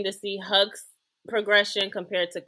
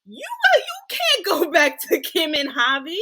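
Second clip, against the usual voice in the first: 1 retold accusation; 8 semitones higher, 3 dB louder than usual. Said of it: "And she was like".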